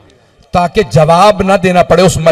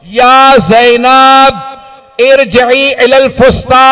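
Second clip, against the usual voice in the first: slow called-out plea to Zainab; drawn-out lamenting call; 3 semitones higher, much slower than usual. Acted. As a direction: call up from below, pleading. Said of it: "नशेब से आवाज देके".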